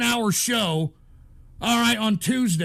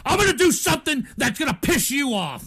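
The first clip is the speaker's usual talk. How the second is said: raised, higher, emphatic; angry threat; 3 semitones higher than usual. Real, not acted. Streamer vowing to piss off chat, angry threat. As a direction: announce your payback to the trolls.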